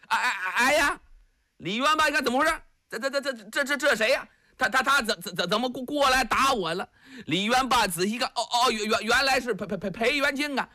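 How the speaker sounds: simple giant stammering on every syllable; lightly voiced stammering giant urging his friend to flee; stammering Li Yuanba. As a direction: repeat each syllable like a dim-witted strongman. Li Yuanba stammers, confused by attack.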